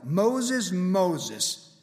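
lightly booming call from God; a hint of God calling Moses; voice of the Lord. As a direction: call his name from above, slow. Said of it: "it's the voice of the Lord".

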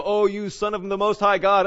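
a hammed-up demon hailing Jesus; demon's cry. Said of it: "the demons would say".

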